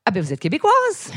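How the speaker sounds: high, rising exclamation of discovery; mock surprised stranger. People reacting to a Quebec woman's accent, mock surprised. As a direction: parody delighted recognition of a Quebecer. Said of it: "on me dit".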